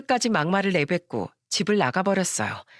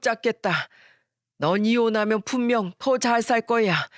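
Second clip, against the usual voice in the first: apologetic. Acted. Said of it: "미안한 목소리로".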